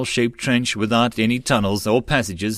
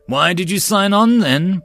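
louder, higher, a hard accusing snarl; angry growl; 8 semitones higher, 5 dB louder than usual. Acted. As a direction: challenge the deserter with contempt. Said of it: "Bok growled".

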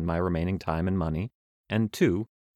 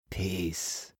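softer, laid-back greeting; cool traveler's voice; 8 dB quieter than usual. Acted. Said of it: "I do need to change voices".

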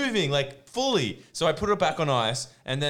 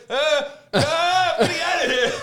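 mock panic; 12 semitones higher, 5 dB louder, slower than usual. Friend voiced, panicked.

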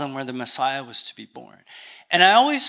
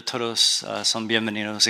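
Canadian accent; 5 semitones lower, 3 dB quieter than usual. Real, not acted. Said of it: "excuse my Canadian accent".

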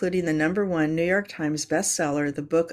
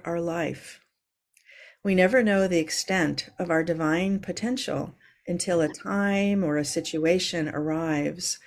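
contemplative reading. Acted. Reads a contemplative quote.

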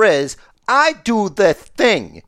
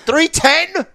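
surprised; 13 semitones higher than usual. Real, not acted. Surprised at episode number.

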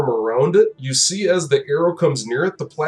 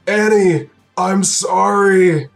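slow, raised slurred cry; slurred dying yell; 5 semitones higher, 5 dB louder, much slower than usual. Acted. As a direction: call out with a dying man's last breath, words dragged out. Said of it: "he yells out again in the slurred voice".

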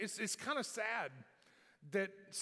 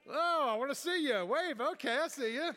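higher and louder, eager call to the crowd; excited calling out; 7 semitones higher, 7 dB louder than usual. Real, not acted. Pastor calling out to great-grandmothers in the pews, excited and loud. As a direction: call out gladly to spot them waving.

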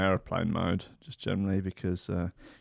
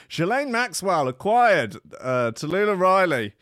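dramatic headline read; 6 semitones higher, 6 dB louder than usual. Acted. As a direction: announce it like breaking news. Reading the headline aloud.

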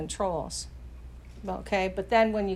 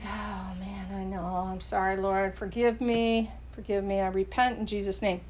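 sorry repentance; 3 semitones lower, 5 dB quieter than usual. Retold or imitated. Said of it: "And you're like".

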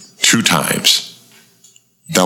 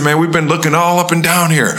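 acting like a fellow hunter; 12 semitones higher than usual. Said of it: "I made up a lie".

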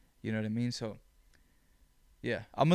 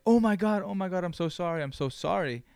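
higher-pitched start, settling as it goes; retold scared apology; 5 semitones higher than usual. Scared driver apologizing after backing into a car, mild retold panic. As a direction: mildly imitate a flustered apology. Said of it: "She looks so scared".

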